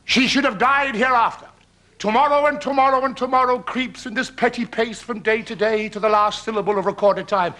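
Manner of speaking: lightly declaimed Shakespeare; measured theatrical verse, easing down in pitch; actor's famous soliloquy. Retold or imitated. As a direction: recite it as a grand stage king. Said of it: "he responds and he says".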